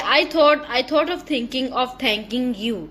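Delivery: slow, deliberate tongue twister reading. Shown as a demonstration. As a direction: spell each sound out slowly. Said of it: "Read aloud the following tongue twisters". (धीरे-धीरे tongue twister)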